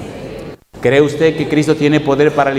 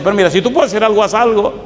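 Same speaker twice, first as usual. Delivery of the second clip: pleading, higher and quick; desperate father; 5 semitones higher than usual. Retold or imitated. Desperate father begs Jesus to heal his son, pleading fast. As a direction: beg him fast, voice raised. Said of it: "el papá desesperado dice".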